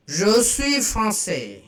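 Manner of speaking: slow, careful French; French model phrase. Shown as a demonstration. Teacher modelling French slowly for students. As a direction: say it clearly for learners to copy. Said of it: "I am French".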